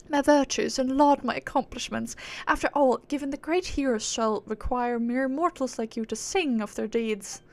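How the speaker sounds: self-important aristocratic British; British accent. Acted. Proud being demanding mortals sing her deeds, lofty British accent. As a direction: boast loftily in a British accent. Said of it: "she's acting all high and mighty".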